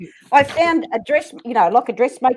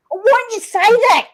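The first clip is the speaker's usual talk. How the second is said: high-pitched exasperated comeback; mock-indignant protest; retold exasperation; 11 semitones higher, 3 dB louder than usual. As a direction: throw it back at a friend, pitched up. Retold exasperation after misunderstanding.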